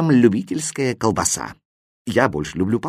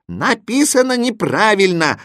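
higher, emphatic announcing voice; chorus reply; 9 semitones higher than usual. A narrator's reading. The signs answer the boy in chorus, emphatic. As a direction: answer firmly for a whole crowd. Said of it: "хором ответили знаки".

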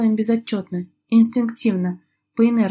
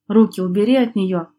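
rough, louder command; грубо; 5 dB louder than usual. Acted. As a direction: bark it at him roughly. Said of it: "грубо бросил он". (грубый окрик)

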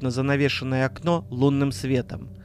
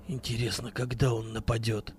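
low tense whisper; 4 semitones lower, 9 dB quieter than usual. Acted. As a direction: whisper while hiding in the bushes. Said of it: "шёпотом спросил Вадим".

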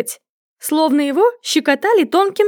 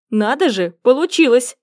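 usual speaking voice

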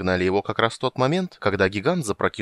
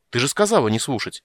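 exploding; 4 semitones higher, 4 dB louder than usual. Acted. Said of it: "взорвался он".

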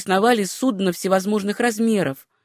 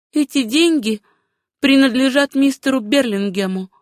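higher female character voice; heroine's voice; 4 semitones higher than usual. Acted. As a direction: lift the pitch for the heroine. Susanna's dialogue in the story.

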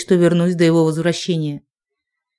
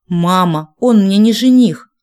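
indignant protest; 2 semitones higher, 5 dB louder, slower than usual. Acted. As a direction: protest hard, it's absurd. Heroine protests loudly. (громкий возмущённый протест)

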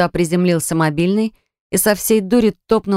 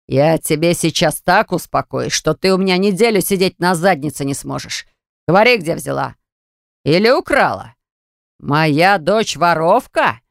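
angry father. Acted. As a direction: threaten her, word by word. Angry father threatens daughter.

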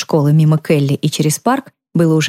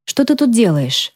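shaken, higher, slowing at the end; startled; 5 semitones higher than usual. A narrator's reading. Girl finding her mother in the dark, asking shakily. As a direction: still catching her breath from the fright.

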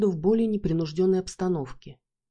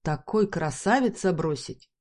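Бархан возмущается. Acted. Бархан возмущён, ломаный русский.

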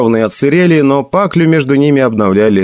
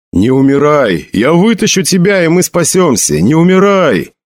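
desperate pleading cries; 6 semitones higher than usual. Acted. Sedjin begs dying Bjorn to stay, pleading cries. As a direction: cry out to a dying friend, voice pitched up.

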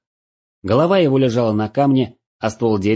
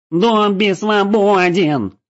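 high loud slow yell of freedom; shouting with laughter; 11 semitones higher, 5 dB louder, much slower than usual. A narrator's reading. Trinik quoting Dobby, yelling to his friends. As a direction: stretch it out in glee. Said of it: "смеясь и крича, заорал Триник".

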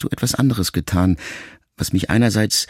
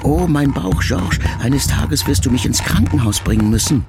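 höher und lauter, klagende Mutter im Zorn; plötzlicher Ausruf der Mutter; 5 semitones higher than usual. Retold or imitated. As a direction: wie eine aufgebrachte Mutter plötzlich aufschreien. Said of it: "riefst du manchmal plötzlich". (die zornige Mutter ruft dem Sohn klagend zu)

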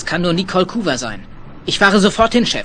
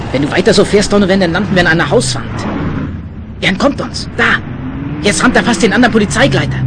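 shouting over the chase; 3 dB louder than usual. Acted.

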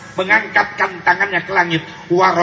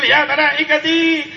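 voice of God; 11 semitones higher than usual. Acted. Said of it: "Allah utus malaikat Jibril".

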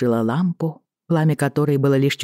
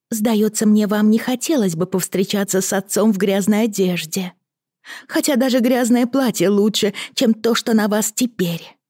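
cartoon princess; 7 semitones higher than usual. A narrator's reading. Lizzie's voice in story.

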